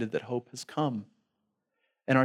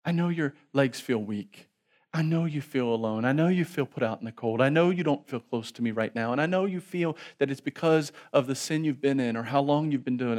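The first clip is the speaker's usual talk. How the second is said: tender father. Acted. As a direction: coax the lost child home. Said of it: "daddy in heaven ... saying".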